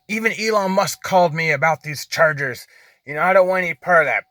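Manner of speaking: mock rant that speeds up at the end; retold angry rant. Driver quoting the man who was going off on him, retold angry rant. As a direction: imitate a man going off, mildly heated. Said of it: "He just was going off on me".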